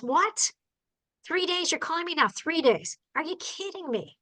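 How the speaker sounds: disbelieving, rising what; mock exasperated disbelief; incredulous outburst. Imitating her own shocked reaction to the truck owner. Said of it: "I don't say it like that to people".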